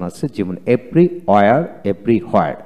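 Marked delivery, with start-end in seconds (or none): 0.7-1.6 everywhere said the British way, without the r; British everywhere, long and open; British pronunciation. Shown as a demonstration. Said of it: "এভরিহোয়ার হচ্ছে British উচ্চারণ". 1.8-2.6 everywhere said the American way, with the r; American everywhere, r sounded; American pronunciation. Shown as a demonstration. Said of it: "everywhere হচ্ছে American উচ্চারণ".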